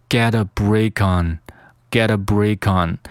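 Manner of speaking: "break on" joined as brea-kon; "get a break on" run together as one phrase; linked "break on". Shown as a demonstration. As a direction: carry the k of "break" onto "on". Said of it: "再进行连读".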